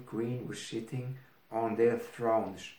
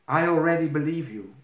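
quick, bright and louder; eager princess; 5 semitones higher, 6 dB louder, faster than usual. Acted. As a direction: blurt it out eagerly. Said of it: "she wanted to tell".

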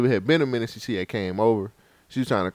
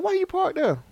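mock exasperation. Retold scolding.

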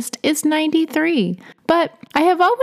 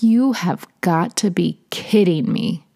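grumbled; 4 semitones lower than usual. Acted. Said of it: "Rick grumbled".

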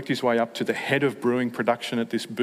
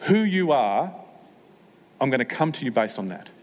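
bold declaration; 2 semitones higher than usual. Retold or imitated. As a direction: proclaim who he is with full confidence. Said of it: "It's just".

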